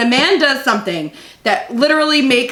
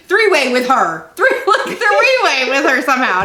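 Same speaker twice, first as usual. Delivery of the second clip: laughing retell; 3 semitones higher than usual. Retold or imitated. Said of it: "he says to me".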